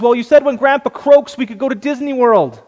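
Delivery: put-on little girl explaining happily to her mother, beaming with joy. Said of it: "who's just beaming with joy".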